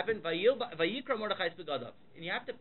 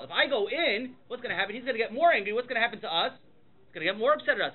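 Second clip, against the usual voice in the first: louder, higher, insistent protest; alarmed objection; 3 semitones higher, 5 dB louder than usual. Retold or imitated. Esther warning Mordechai the plan will backfire, mildly alarmed objection. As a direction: argue back, pressing each worry.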